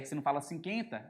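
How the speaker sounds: "cinquenta" with silent U, as "cinkenta"; wrong pronunciation. Shown as a demonstration. Teacher showing students how nobody says it, mispronounced. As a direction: say "cinquenta" with plain K, no W glide. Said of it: "você não fala assim".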